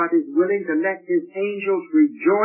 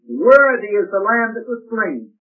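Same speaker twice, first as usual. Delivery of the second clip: loud proclaiming praise; saints' praise; 3 semitones higher, 7 dB louder than usual. Retold or imitated. Preacher voicing the saints worshipping the Lamb, loud proclaiming. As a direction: proclaim it like heaven's choir.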